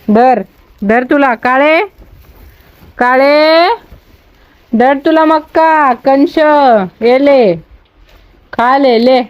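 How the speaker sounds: high, slow sing-song to the goats; coaxing goats. Real, not acted. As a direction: lure the goats in with a lilting high call. (शेळ्यांना उंच गोड आवाजात बोलावणे)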